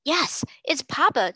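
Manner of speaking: high, slow, loud announcement; proclaimed. Acted. Boy proclaiming father's arrival, high and slow. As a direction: announce it grandly to everyone. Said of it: "Donald proclaimed".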